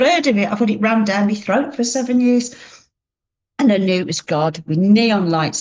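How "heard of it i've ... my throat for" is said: mock outraged repeat of heard; incredulous scoff. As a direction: pitch jumps high on heard, scoffing. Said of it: "I thought".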